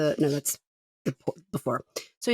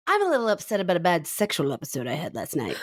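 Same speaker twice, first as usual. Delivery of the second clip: matter-of-fact. Retold or imitated. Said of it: "so matter of fact".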